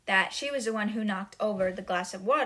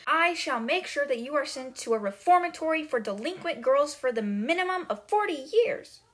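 mounting tirade, louder and higher by the end; angry accusation; 3 semitones higher, 4 dB louder than usual. Retold or imitated. Headmistress accusing Matilda, building retold tirade. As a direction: act out a headmistress laying down punishment. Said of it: "accusing Matilda over and over".

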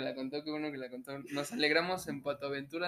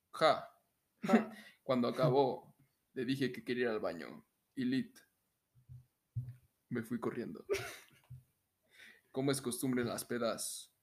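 announcer-style narration with deliberate pauses; voz de locutor. Pretend. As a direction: read it out in measured, evenly pitched phrases. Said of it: "la voy a leer con mi voz de locutor". (voz de locutor, pausada y pareja)

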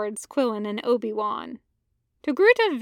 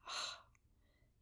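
long soft sigh out through the mouth; weary sigh; 26 dB quieter than usual. Acted. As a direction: let the breath fall out in a sigh. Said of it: "He sighs".

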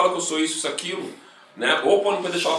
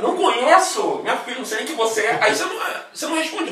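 laughing; 6 semitones higher than usual. Real, not acted. Laughing while ranting.

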